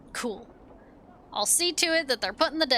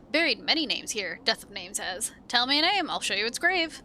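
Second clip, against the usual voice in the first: sing-song dustman. Acted. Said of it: "curious sing-song voice".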